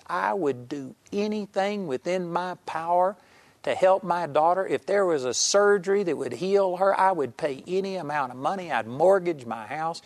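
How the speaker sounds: mildly acted outraged vow; retold indignant yell. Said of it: "he yelled at me".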